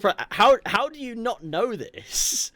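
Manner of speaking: high, slow disbelief; can't believe nobody knew; incredulous. Real, not acted. To the co-hosts, baffled that fans didn't know, rising incredulous.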